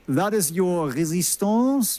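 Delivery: slow, French-accented "résistance" with a slight snarl. Shown as a demonstration. Trader jokes to viewers about the resistance line, in a mock French accent. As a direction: say "résistance" like a Frenchman with a cigarette, slowly. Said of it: "You have to say that in a French accent, um, and sort of snarl slightly".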